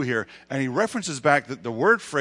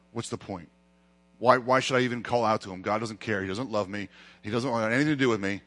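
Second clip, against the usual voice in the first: defeated resignation; 3 semitones lower than usual. Acted. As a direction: voice someone who has given up. Voicing a defeated beggar.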